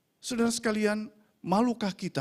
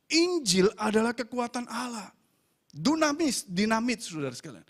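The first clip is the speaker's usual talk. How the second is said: raised, declamatory pulpit voice; insistent sermon delivery, key words driven home; emphatic preaching; 7 semitones higher than usual. Acted. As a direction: proclaim it to the congregation with conviction. Preaches on the Gospel's power.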